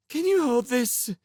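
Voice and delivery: put-on girl's voice. Charmaine asks Sim.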